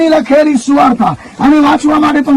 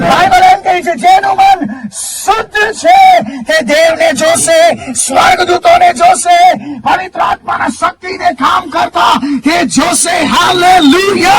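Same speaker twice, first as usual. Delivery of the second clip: ringing, emphatic sermon lines; full force preaching; 3 semitones higher than usual. Acted. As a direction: preach it out to the congregation.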